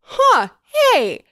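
very high, slow, goofy dismay; mock realisation. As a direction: Charlie realises he was shot, goofy high. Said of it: "When Charlie walks out and goes".

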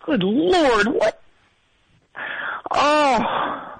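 muffled, face in a pillow; talking into a pillow. Real, not acted. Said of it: "I got my face down in a pillow".

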